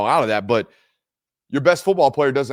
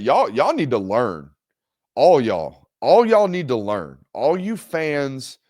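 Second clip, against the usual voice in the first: scolding the fans; 4 dB louder, slower than usual. Real, not acted. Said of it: "scolding fans, emphatic".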